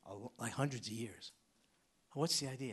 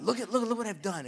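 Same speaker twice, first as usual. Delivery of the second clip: a light mocking voice of a proud believer; a hint of smug show-off; mock boasting; 8 semitones higher, 8 dB louder, faster than usual. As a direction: show off to God, lightly mocked.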